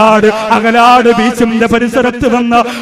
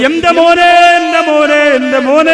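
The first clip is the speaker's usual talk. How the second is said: mock wailing; 6 semitones higher than usual. Preacher imitates a mourning mother's mild mock wail. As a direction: act out a mother's cry for her son, lightly. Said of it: "എന്ന് വിളിച്ചുകൊണ്ട് നിലവിളിക്കരുത്".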